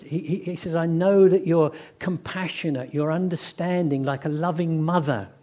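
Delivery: moaning and mad. Retold or imitated. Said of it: "Jonah is moaning and mad".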